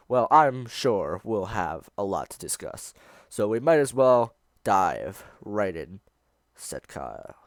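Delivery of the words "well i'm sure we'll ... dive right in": a touch deeper host voice; deep low voice. Acted. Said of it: "in a deep, low voice".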